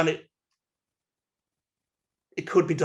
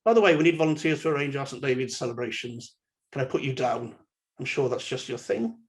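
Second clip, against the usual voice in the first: friendly. Shown as a demonstration. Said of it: "So we could say something like this".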